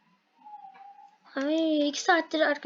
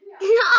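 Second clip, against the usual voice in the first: teary laugh; 3 semitones higher, 6 dB louder than usual. Real, not acted. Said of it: "ağlıyor muyum diye sorarsanız".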